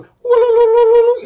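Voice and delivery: high squeaky fish call, hammed up; Aquaman talking to fish. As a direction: squeal it like a cartoon hero calling fish. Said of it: "Let me do it".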